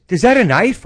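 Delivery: put-on high, loud child's question; kid voice. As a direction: squeak it like an excited kid. Grace asks, voiced high.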